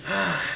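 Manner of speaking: mock sigh after a fall; imitated pained sigh. Joking about how older people fall down, imitated sighing "ah". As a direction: let out a mild, imitated "ah" of effort.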